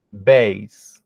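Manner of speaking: bass said like base, not like the fish word bas; low, careful model of bass rhyming with face; model pronunciation. Shown as a demonstration. Teacher models bass for robalo, careful and low. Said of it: "mas a pronúncia é diferente".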